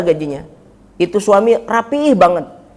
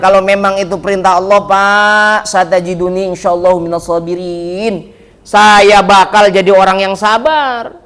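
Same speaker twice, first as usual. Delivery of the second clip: slow, steady, devoted son's answer; Ismail's obedient reply; slower than usual. Acted. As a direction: answer like an obedient son, drawn out and firm. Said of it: "Kata Nabi Ismail". (Ismail menjawab ayahnya pelan dan mantap)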